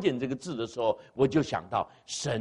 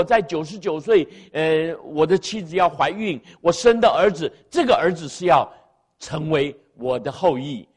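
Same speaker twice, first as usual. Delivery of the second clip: pleading, pitched-up protest to God; incredulous protest; 3 semitones higher than usual. Pretend. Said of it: "你会说：". (高声质问，难以置信)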